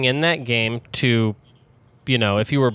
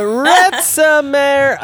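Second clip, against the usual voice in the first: the title said backwards, drawn out high; backwards speech; 11 semitones higher, 6 dB louder, much slower than usual. Shown as a demonstration. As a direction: read the name in reverse, slowly. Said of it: "Say it backwards".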